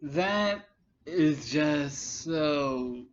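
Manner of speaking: real exhausted disbelief, voice sinking; weary disbelief. Real, not acted. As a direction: let it fade out in real exasperation. Disbelief at stupid comment.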